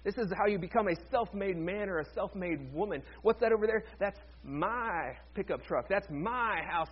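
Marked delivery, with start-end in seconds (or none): 4.0-6.9 slow, hammed-up Alabama drawl on MY; mock Alabama accent, words stretched out; fake Alabama accent. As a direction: put on a possessive Alabama accent. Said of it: "jumped into that fake accent".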